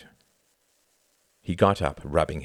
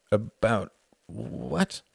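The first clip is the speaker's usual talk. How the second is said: puzzled; 3 semitones higher, much slower than usual. A narrator's reading. Father frowns, puzzled by son's question.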